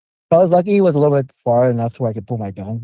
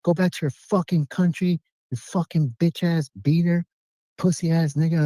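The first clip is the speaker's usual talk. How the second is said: higher, drawn-out mock tirade; retold pissed-off rant; 6 semitones higher than usual. Stranger cursing out the man who refused him money, mock angry rant. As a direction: act out an angry man's string of insults, slowing on the curses. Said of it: "he got pissed".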